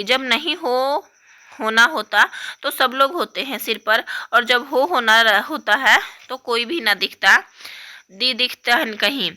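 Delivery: put-on tearful, halting complaint of a small girl; a young girl sobbing and grumbling. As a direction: speak through sniffles, voice catching. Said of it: "उसी तरह सिसकती".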